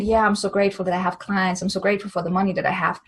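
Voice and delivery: fast, dismissive rattling off; just saying it. Shown as a demonstration. Mocking empty gratitude statements, rattled off fast. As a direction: breeze through it without meaning a word. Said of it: "if you're just saying it".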